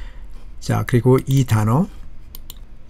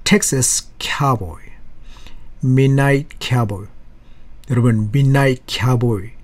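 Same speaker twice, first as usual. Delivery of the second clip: American accent; much slower than usual. Shown as a demonstration. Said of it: "키아보이 그렇게 얘기해요".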